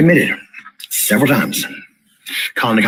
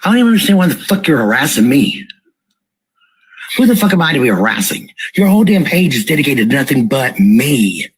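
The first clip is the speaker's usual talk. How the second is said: real indignation, pitched higher; fed-up, higher-pitched protest; angry accusation; 4 semitones higher than usual. Real, not acted. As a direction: accuse them, pitch climbing to the last words. Angrily accusing the page of harassing her.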